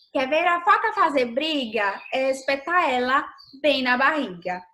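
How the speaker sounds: put-on lightly lilting children's poem reading; gentle rhythmic verse reading; poem recitation. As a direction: read the rhyme aloud to young pupils in even, measured couplets.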